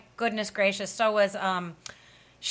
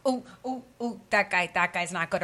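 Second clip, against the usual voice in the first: wary mock alarm. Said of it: "I've been like".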